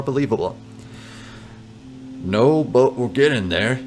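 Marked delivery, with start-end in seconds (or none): 2.2-3.8 reassuring. Pretend. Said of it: "you reassure the old man".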